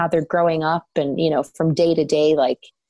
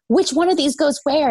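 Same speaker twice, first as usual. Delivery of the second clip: imitating panicked husband; 9 semitones higher than usual. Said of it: "And he's like".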